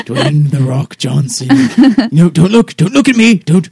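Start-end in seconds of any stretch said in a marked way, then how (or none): 2.1-3.7 urgent. Acted. Hissing at ally mid-trick.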